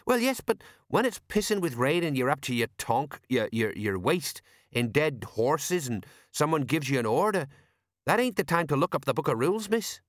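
a hint of a gruff old copper; Sergeant Colon. Old sergeant explaining war to Angua, lightly voiced.

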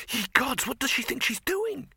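put-on shocked young man's cry; alarmed. Victor alarmed at Ginger.

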